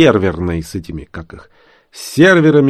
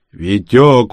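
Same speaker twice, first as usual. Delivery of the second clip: reproachful call, louder; 2 semitones higher, 7 dB louder than usual. Acted. Mikhail reproaching the sweaty Vityok, reproachful. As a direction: call his name like a disappointed elder. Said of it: "укоризненно покачал головой Михаил".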